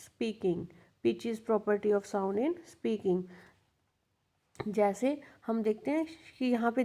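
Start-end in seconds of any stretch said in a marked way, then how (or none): 0.1-0.6 slow dictation. Shown as a demonstration. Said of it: "pitch क्या होता है?". 1.1-3.2 slow dictation. Shown as a demonstration. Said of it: "pitch क्या होता है?".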